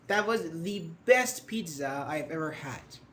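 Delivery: "the best" stressed, the said as "thee"; emphatic "the". Shown as a demonstration. Teacher shows praise for pizza, emphatic "thee best". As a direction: punch the best, with a long "thee". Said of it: "if you want to emphasize".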